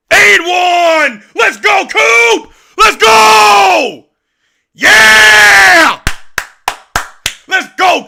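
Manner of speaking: screaming high and loud with joy; full-throated yell for the team; ecstatic cheering. Real, not acted. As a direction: hype fan erupting after the score. Cheering a big play.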